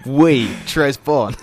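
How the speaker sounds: slow, mock-posh French accent. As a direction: play the pretentious French film fan. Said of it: "Do you watch a lot of French cinema?".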